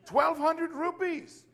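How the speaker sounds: high, loud, drawn-out boast; amazed emphasis. Retold or imitated. Preacher showing Lovely the money, high slow amazement.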